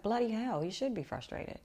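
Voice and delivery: mock outrage on a friend's behalf; indignant exclamation. Friend's indignant reaction, retold.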